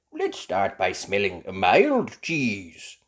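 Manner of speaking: loud, slow guiding; lightly voiced Grampy. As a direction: lead the sniffing gently. Grampy Rabbit leads tasting.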